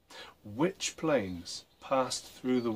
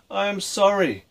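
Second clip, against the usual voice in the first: father shouting; 7 semitones higher than usual. A narrator's reading. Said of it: "his father shouted".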